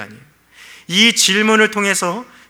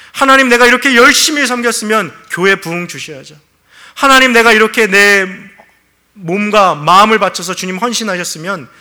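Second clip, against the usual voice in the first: higher, louder, indignant demand to God; demanding complaint; 4 semitones higher, 5 dB louder than usual. Acted. Preacher voicing a believer who demands reward from God, indignant and raised. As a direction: push it like a believer who feels owed.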